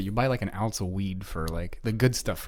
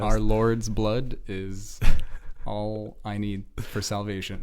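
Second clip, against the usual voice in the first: mock preacher; 2 semitones lower, slower than usual. Mock pious sermon line.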